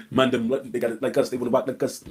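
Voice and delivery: deep, mumbled London accent, mocking; sending up a British accent again. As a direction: parrot his London slang like a clown. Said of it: "whatever the fuck he said".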